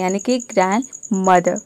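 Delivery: ग्रैंडमदर with a faint final r; teacher shows the half-pronounced r. Shown as a demonstration. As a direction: say ग्रैंडमदर, the last r only half there. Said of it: "आर को आधा pronounce".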